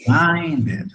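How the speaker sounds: "Reminded" as re-MINE-ded, ending fully sounded; model pronunciation. Shown as a demonstration. Teacher corrects a student's reminded, modelling the pronunciation. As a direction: stretch the "mind" in "Reminded", then add -ed. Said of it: "Así sería".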